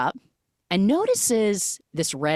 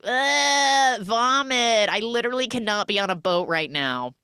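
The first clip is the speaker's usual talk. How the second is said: disgusted; 6 semitones higher than usual. Retold or imitated. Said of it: "the girls are like".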